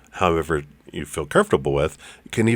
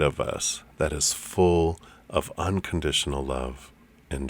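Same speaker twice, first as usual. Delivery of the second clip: guided meditation. Acted. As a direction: paint the waterfall of love gently.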